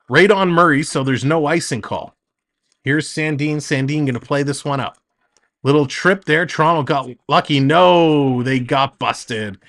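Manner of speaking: quick, lively hockey call; play-by-play. Acted. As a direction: call the action as it happens.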